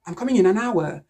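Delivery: "an hour" run together as "anour"; assimilated article. Shown as a demonstration. Teacher showing assimilation, "an hour" run together as one word. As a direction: link the N of "an" straight into "hour". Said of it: "it can easily be assimilated".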